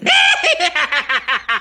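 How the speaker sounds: high shrieking laugh at herself; a cackling laugh at her own insanity; loud laugh. Real, not acted. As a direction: burst out laughing. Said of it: "I'm fucking insane".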